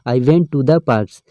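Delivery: sentence read out slowly, word by word; slow reading aloud. Shown as a demonstration. Teacher reads the example sentence slowly to students. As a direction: dictate it slowly to the class. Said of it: "teacher reads example sentence".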